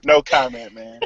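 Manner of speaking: laughing through no comment. Real, not acted. Dodging the joke about the services, laughing.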